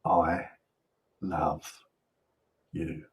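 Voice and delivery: tender I love you. Shown as a demonstration. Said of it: "just say three words".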